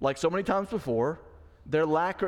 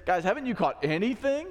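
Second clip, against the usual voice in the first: teasing; 6 semitones higher than usual. Retold or imitated. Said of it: "what he's really saying is".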